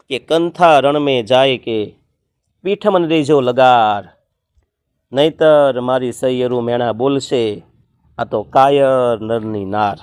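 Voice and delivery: slow chanted couplet; doha recitation. Shown as a demonstration. Teacher reciting a doha to explain kantha, in a slow chant. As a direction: chant the old doha slowly.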